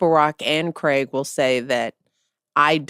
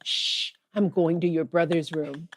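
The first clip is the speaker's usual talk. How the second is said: soft shushing aside; hushed; 6 dB quieter than usual. Retold or imitated. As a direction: hush and sneak off. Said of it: "she's like".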